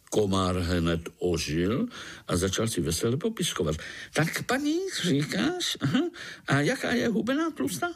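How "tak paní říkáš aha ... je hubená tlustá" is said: high, quick, hungry questions; excited mosquito; eager mosquito. Acted. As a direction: ask greedily.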